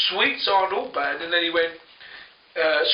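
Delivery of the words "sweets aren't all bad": retold line, slower and drawn out with mild zest; more enthusiasm. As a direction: repeat it with a bit more enthusiasm. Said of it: "say it with more enthusiasm".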